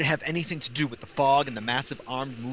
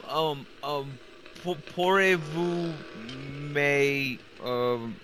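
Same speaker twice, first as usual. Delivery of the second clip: put-on halting French accent; slower than usual. Reporter tries French on gendarme.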